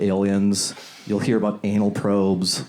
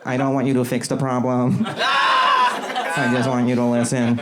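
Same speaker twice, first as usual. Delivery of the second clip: put-on whiny AI girlfriend.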